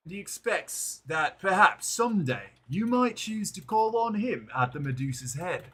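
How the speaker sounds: a hint of the pompous gentleman, unhurried; courtly envoy. Envoy inviting the captain to the Medusa's Head, lightly voiced courtly tone. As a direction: offer safe conduct with smooth courtesy. Reads NPC envoy dialogue.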